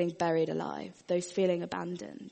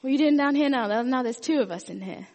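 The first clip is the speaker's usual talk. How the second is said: exasperated; 5 semitones higher, 7 dB louder than usual. Retold or imitated. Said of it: "And the guy's like".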